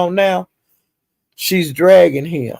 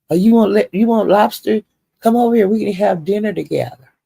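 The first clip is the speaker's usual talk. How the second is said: higher, mocking sugary invitation; mock sweet-talk; 5 semitones higher than usual. Mocking Gina begging the man with food, higher and sugary. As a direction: coo it like she's begging him over. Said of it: "She was buying him food".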